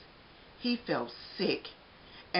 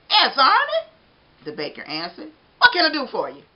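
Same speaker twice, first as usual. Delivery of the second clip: jolly baker voice; 7 semitones higher, 11 dB louder than usual. Acted.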